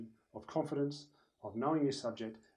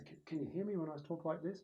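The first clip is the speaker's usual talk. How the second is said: higher, unforced test voice; voice check; 4 semitones higher, 3 dB quieter than usual. Shown as a demonstration. Speaker checking with mates at the back, unforced voice check. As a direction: try a moderate level on the room. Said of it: "stand up the back of the room and say".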